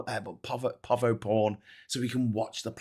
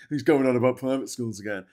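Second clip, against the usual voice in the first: mock pop-up caption; 2 semitones higher, 4 dB louder than usual. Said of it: "make a little pop-up of saying".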